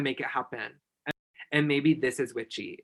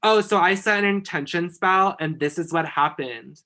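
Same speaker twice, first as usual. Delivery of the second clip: imitating friend's brag; 4 semitones higher, 6 dB louder than usual. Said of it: "she's gonna be like".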